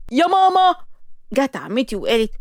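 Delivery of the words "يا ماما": higher, louder tearful wail for mom; crying wail. Acted. Girl wailing for her mom after the insult, higher tearful wail. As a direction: wail it like a child. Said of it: "لقيتها عيطت".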